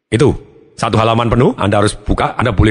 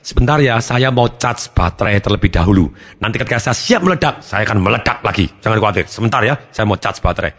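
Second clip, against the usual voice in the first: gentle reassurance; 3 semitones lower than usual. Retold or imitated. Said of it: "saya lebih ngomong kepada istri saya".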